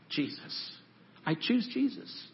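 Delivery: near-silent breath on Jesus, then a soft slow I choose Jesus; hushed echo. Shown as a demonstration. Pastor modelling the prayer for the congregation, hushed and slow. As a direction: drop almost to nothing and let it hang.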